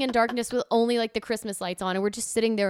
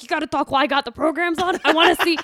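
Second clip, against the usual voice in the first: mild mock grumble; 7 semitones higher, 6 dB louder than usual. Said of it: "He's like".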